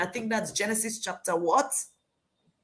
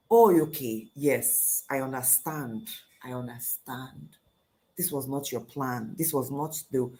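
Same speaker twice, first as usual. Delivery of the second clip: understanding; 7 semitones lower than usual. Acted. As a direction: soothe her gently in a lowered voice. Angel soothing Hagar.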